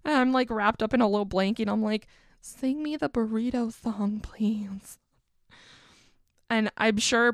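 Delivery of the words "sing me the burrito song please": whispered sleepy plea. Retold or imitated. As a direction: breathe the request under the blanket. Wrapped in blanket, asking boyfriend.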